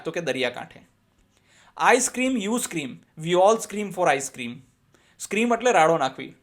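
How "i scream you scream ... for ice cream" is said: slow, lively model reading; sing-song it out for the class to repeat; tongue twister reading. Shown as a demonstration. Teacher models the ice cream twister for pupils, slow. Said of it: "Speak them repeatedly".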